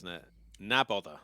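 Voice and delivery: bad Scottish accent attempt; a clumsy Scottish lilt. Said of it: "That, that's a terrible ni bother".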